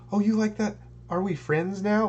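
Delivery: put-on high, excited kid voice; childlike mock. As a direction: play it like a giddy child. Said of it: "like a child".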